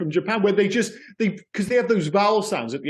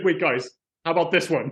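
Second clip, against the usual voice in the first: eager, keen, enthusiastic tone. Mimicking how another speaker just read out a film title: imitating an eager pitching tone. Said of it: "it was just your tone and the way it's like".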